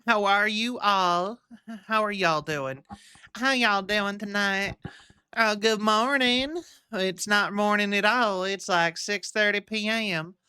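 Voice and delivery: playful, drawn-out Southern greeting; lightly hammed-up Southern drawl; put-on Southern voice. Streamer greeting viewers, in a mock Southern voice. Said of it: "I don't know why I'm doing a voice".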